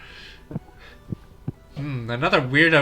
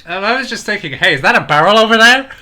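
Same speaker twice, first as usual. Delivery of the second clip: higher, louder mock innocent; 7 semitones higher, 7 dB louder than usual. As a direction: act dumb on purpose.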